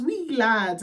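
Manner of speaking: playful imitation Irish-Scottish accent. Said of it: "Irish, Scottish accent".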